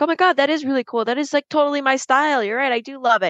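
high, fast gush over a gift; gushing thanks. Retold or imitated. Amanda thanking her friend for the mirror, high and gushing. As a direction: squeal it, quick and delighted.

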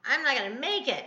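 mock woeful lament, rising and falling; hammed-up bellyaching about pain; retold moaning. Wife complaining to Bill about her pain, imitated woe. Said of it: "I would just be like".

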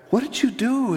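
high-pitched, urgent question; retold amazed nurse. Nurse questions embarrassed teacher about her patient, high and amazed. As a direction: act out an astonished nurse, voice lifted high. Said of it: "The nurse comes up to her in the hall and says".

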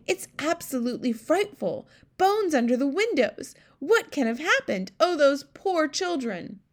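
high, loud, aghast queen; horrified outcry. A narrator's reading. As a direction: cry it out, drawing out the final lament. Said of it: "the famous voice cried out".

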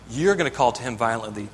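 You're hit hardest, the rest of the line steady; stress on You're. Acted. Preacher stressing You're to the congregation, emphatic. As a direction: point the word You're at them.

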